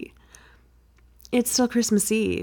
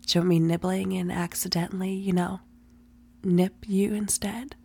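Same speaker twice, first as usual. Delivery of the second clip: breathy ASMR whisper. Acted. Whispered roleplay.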